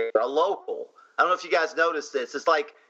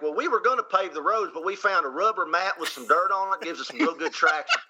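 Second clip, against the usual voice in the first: fake Southern accent; 3 semitones higher than usual. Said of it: "does another Southern accent on top of it".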